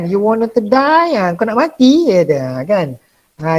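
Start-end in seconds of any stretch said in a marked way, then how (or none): 0.1-1.2 slow, drawn-out mock Australian, die for day; a teacher's playful take on an Aussie accent. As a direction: tease the Aussie accent slowly. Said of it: "dia tu cara sebutan dia".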